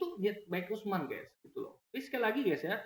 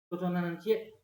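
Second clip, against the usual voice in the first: light Minang accent on "Nan Cie"; Minang dialect; 2 semitones higher than usual. Shown as a demonstration. Imagined objector pointing at the written text, Minang dialect. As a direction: quote the Minang version. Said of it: "logat Minang misalnya".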